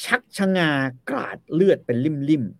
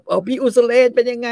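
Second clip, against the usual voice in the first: sweet mock greeting; 10 semitones higher, 7 dB louder than usual. Wives greet Usalen sweetly.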